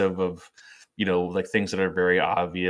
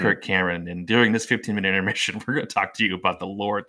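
mock Kirk Cameron; faster than usual. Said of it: "be like".

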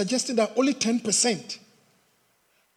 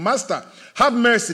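raised, pleading call; 3 semitones higher, 4 dB louder than usual. Acted. Lepers trying their luck with Jesus, calling out. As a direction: cry out to Jesus, moderately loud. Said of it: "they cried out with a loud voice".

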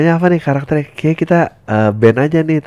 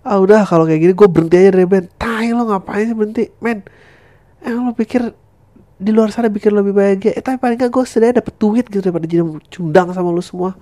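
higher, exasperated bandmates; quitting bandmate; 7 semitones higher than usual. Acted. Bandmates arguing about quitting, slightly higher. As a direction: threaten to leave the band.

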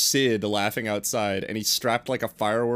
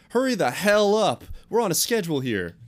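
yelling across the room; 8 semitones higher than usual. Acted. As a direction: bark it up the stairs, fast. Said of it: "his mom yelling at him".

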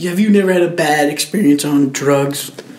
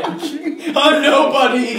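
laughing mock whine; 10 semitones higher, much slower than usual. Echoing friend's story, laughing.

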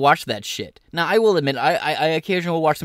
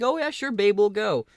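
mock dad; 6 semitones higher than usual. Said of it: "He was like".

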